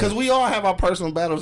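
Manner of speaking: impassioned and high; high-pitched. Real, not acted. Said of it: "Voice, voice got all high pitched".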